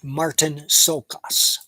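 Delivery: slow, halting name read off fine print. Real, not acted. Reviewer reading the actor's name off small print, slow and halting. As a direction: sound it out slowly while squinting at the type. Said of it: "I can't read this type here".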